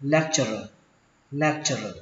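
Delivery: "Lecturer" said lek-chơ-rơ. Shown as a demonstration. Teacher models for learners, "Lecturer" with a "ch". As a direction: turn the T of "Lecturer" into "ch". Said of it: "chúng ta đọc là chờ".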